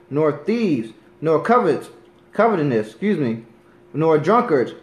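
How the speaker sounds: firm, emphatic Bible reading; preacher reading a list of sinners from scripture. Acted. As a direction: proclaim each line of the list. Reads First Corinthians aloud.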